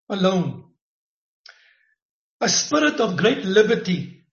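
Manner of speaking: rising fervent prophecy; prophetic preaching. Acted. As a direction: build it up with conviction. Prophesying Deborah spirit over Ray.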